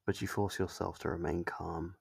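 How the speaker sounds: normal talking voice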